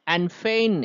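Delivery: "and fain" with "fain" stretched and stressed; quick "and", then lean on "fain". Shown as a demonstration. Teacher marking the iambic foot, "fain" stressed in "and fain". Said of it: "এটাতে stress পড়ছে".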